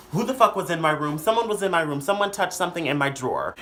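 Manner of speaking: indignant. Retold or imitated. Sister finding someone was in her room, indignant. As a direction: imitate a sister accusing everyone. Sister's angry accusation retold.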